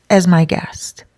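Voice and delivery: whispered, unvoiced. Robert offering her his spare room, whispered. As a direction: breathe it as a gentle promise.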